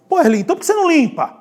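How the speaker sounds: high, loud, rapid-fire outburst; exasperated demand. Acted. Pastor acting out confronting Erli over the dirty floor, exasperated. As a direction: burst out as if fed up with him.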